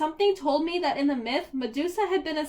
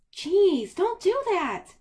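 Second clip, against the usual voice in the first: startled yelp; 6 semitones higher, 3 dB louder, slower than usual. Acted. Percy startled by invisible Annabeth.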